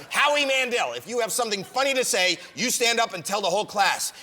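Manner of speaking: a hint of scolding teacher; lightly voiced teacher. Teacher catching a pupil in class, mildly stern. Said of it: "Teacher would catch me and go".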